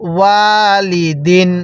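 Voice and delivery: slow "ওয়ালিদিন" with a long held ওয়া; drawn-out vowel. Shown as a demonstration. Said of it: "বলুন আমার সাথে".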